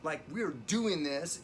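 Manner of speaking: acted-out angry demand, mildly heated; retold fury. Patient demanding a ventilator from ER staff, mildly furious. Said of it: "I got furious. I was like".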